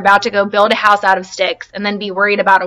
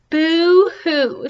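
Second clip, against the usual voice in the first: high mock boo-hoo from afar; echoed crying; 7 semitones higher than usual. The voice across the pond echoes the crying, mock boo-hoo. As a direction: echo the wail back from across the water. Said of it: "said the voice from across the pond".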